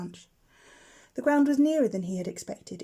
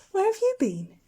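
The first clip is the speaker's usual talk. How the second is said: a bit cross; 11 semitones higher, 4 dB louder than usual. A narrator's reading. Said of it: "She sounded a bit cross".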